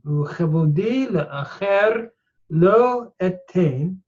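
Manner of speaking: Uchevodi le'acher lo etein read slowly in Hebrew. Shown as a demonstration. Teacher reading Hebrew verse, slow.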